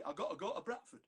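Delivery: Bradford voice, "gotta" and "Bradford" said with their T's swallowed; Bradford accent. Retold or imitated. Poet showing the host how Bradford folk drop their T's, in a Bradford accent. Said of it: "they don't say their T's".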